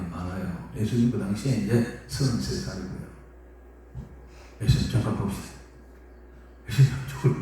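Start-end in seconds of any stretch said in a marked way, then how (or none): 4.6-5.6 hushed whisper, pulling someone aside. Acted. Peter taking Jesus aside, secret whisper. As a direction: whisper it so no one else hears.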